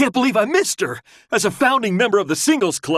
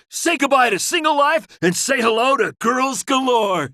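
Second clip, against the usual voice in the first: rallying shout; 3 semitones higher than usual. Acted. Pumping up singles club brother.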